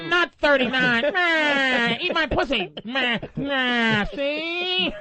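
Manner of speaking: lightly voiced old gangster drawl; a hint of a tough-guy movie mobster, laughing through it; Edward G. Robinson. Host riffing on a caller, mock old gangster voice. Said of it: "Edward G. Robinson voice".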